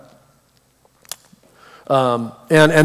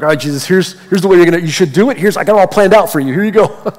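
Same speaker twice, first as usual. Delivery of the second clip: mock-helpful, higher-pitched and quick at the end; eager bossy prayer; 4 semitones higher, 5 dB louder, faster than usual. Man handing Jesus his list in prayer, eagerly bossy. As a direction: hand over your plan, pitch climbing eagerly.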